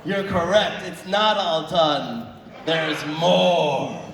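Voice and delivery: slow, drawn-out spooky wizard voice. Pretend. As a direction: play it like a mysterious wizard. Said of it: "like a spooky wizard".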